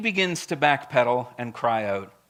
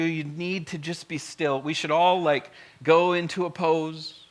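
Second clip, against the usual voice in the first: fluffy reassurance. Acted. Preacher voicing a gentle Moses soothing the folks, fluffy. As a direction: lull them like everything is just fine. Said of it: "when you read it with the fluffy tone".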